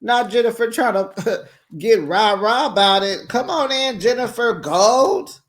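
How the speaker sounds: high, loud hyped-up call; mock hype welcome. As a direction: cheer her in, loud and high. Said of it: "I said".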